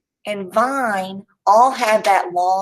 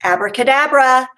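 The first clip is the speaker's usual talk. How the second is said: magic word; 5 semitones higher, 4 dB louder than usual. Shown as a demonstration. Teacher's magic reveal chant.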